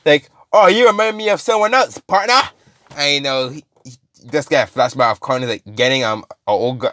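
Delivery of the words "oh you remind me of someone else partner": high-pitched mock cowboy voice; cowboy villain. Carnage to his victim, cowboy voice.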